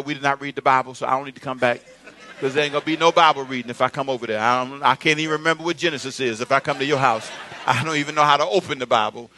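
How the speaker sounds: low-pitched, matter-of-fact excuse; frank refusal. Acted. Dater declines a visit to the house, low frank refusal. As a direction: keep it low and rattle off reasons. Acts out declining a date's invitation.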